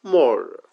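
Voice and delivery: murder with long central vowel, weak ending; correct pronunciation. Shown as a demonstration. Teacher correcting the mistake, murder as "muh-duh". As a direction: draw out the first vowel of murder, no hard r. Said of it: "এটা কিন্তু একটা ভুল উচ্চারণ".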